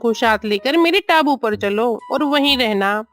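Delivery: lightly voiced crow, a touch under the narration; crow urging the mother crow. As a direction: lightly play a crow urging her along. (कौवे की हल्की अभिनीत आवाज़)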